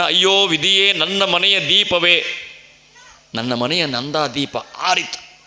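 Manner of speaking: a touch of weeping, drawn out; mild mournful lament. Acted. Father over his son's body, slow mild lament. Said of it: "ಹೆಣದ ಮೇಲೆ ಬಿದ್ದು ಅಳ್ತಾನ".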